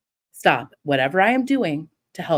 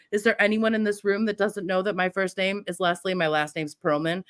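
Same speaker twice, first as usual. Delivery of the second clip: ordinary talk, nothing marked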